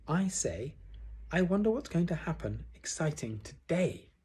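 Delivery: high, eager little piglet. A narrator's reading. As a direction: wonder aloud in a small high voice. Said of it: "said Piglet".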